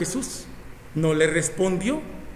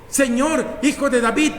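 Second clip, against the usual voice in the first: crying out; 4 semitones higher than usual. Acted. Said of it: "gritando por todo el camino".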